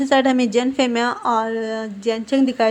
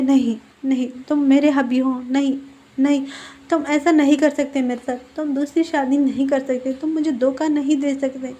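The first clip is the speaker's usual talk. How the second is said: distraught pleading; 3 semitones higher than usual. Retold or imitated. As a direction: plead in disbelief, half-performed. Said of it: "वो चीखने चिल्लाने लगता है". (हल्का सा बनावटी बेबस गिड़गिड़ाना)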